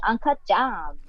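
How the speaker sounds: mock Californian actress; lightly mimicked California accent; imitated California accent. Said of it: "she kept saying".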